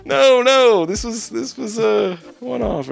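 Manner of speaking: high, slow, pleading denial; protest, whining a little. Retold or imitated. Pleading protest in acted quote.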